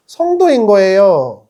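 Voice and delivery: slow, loud, weighted declaration; triumphant slow proclamation; emphatic answer. Acted. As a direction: land each syllable slowly and loudly. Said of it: "그게 누굽니까?".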